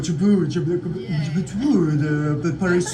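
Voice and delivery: French-sounding gibberish; mock French. Shown as a demonstration. Host showing interviewees how French sounds, mock French. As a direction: babble like a Frenchman. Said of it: "French sounds like".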